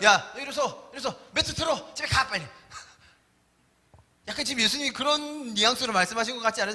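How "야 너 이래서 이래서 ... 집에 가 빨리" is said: mock harsh, rough, pushy, brusque voice. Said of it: "좀 과격한".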